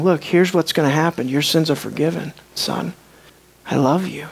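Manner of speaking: soft, low, gentle words of forgiveness; tender reassurance. Acted. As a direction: reassure him quietly, like a loving father. Voicing Jesus forgiving the man.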